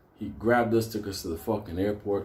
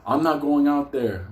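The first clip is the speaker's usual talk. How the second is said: alarmed refusal; 4 semitones higher, 5 dB louder than usual. Retold or imitated. Acts out Benny refusing to leave.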